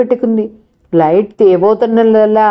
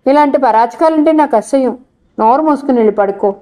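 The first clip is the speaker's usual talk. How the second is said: a touch of irritation, higher then fast; mild anger; 3 semitones higher than usual. Acted. Jyotsna tells her teasing friend to shut up and sleep, mildly angry. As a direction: snap it off quickly, mildly annoyed. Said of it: "కోపంగా అంది".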